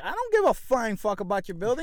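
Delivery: mildly heated comeback; retold angry retort. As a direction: snap back at the owner, mildly. Acted quarrel with building owner.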